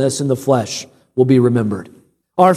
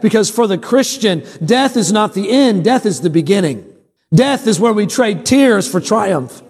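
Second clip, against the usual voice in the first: preaching; 5 semitones higher than usual. Real, not acted. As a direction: drive each contrast home to the congregation. Preaches in repeated phrases.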